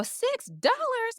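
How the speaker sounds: high and slow, stretched disbelief; mock outrage. Reacting to the Girl Scout cookie price, slow high mock outrage. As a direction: drag out the price like it's absurd.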